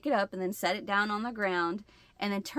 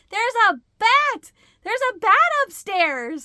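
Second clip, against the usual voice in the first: high, loud alarmed announcement; urgent shout; 11 semitones higher, 9 dB louder than usual. Retold or imitated. Wife telling husband about the bat, high urgent shout. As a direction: yell the news in a panic.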